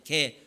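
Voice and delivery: "개" said slowly, one low drawn-out syllable; sounding out words. Shown as a demonstration. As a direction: spell out "개" carefully, pitch dropping. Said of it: "헬라어 개라는 단어예요".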